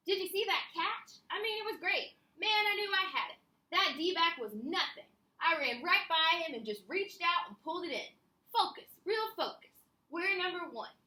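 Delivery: high, pumped-up athlete; excited player. Acted. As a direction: brag about the catch with energy. Teacher voices excited football player.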